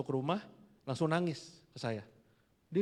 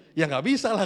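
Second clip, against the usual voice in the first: seruan istri; 5 semitones higher, 11 dB louder than usual. Retold or imitated.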